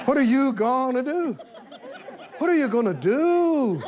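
chuckling through the nagging question; a half-laughed imitation of a nagging voice; laughing mock taunt. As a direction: laugh while imitating the pest. Mocking the enemy's nagging question.

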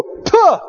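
a sharp high spit sound; spitting sound. Pretend. Preacher mocking death with a spitting puff.

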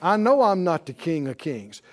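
ordinary talk

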